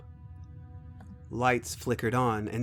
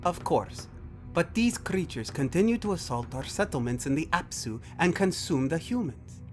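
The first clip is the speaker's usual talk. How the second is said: higher, formal character voice; alien brother, insistent; 6 semitones higher than usual. Acted. Brother argues their civilization is threatened, higher formal insistence. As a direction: press the argument with stately conviction.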